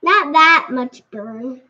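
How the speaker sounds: slow, lips stinging from spice; mouth burning from spicy food. Real, not acted. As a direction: speak through burning lips. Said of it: "My mouth is burning".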